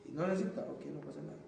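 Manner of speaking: normal talking voice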